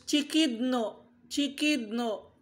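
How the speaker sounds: "Chikidno" said slowly, syllable by syllable; saying the Hebrew word. Shown as a demonstration. Pastor teaching the congregation a Hebrew word, slow and careful. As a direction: spell out "Chikidno" slowly for the class. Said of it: "kung i-pronounce yan".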